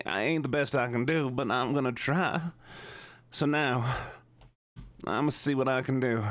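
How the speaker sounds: lightly put-on Southern accent. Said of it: "the Southern voice".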